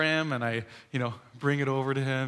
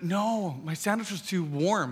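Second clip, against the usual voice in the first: put-on small child; 4 semitones higher, slower than usual. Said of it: "He's like".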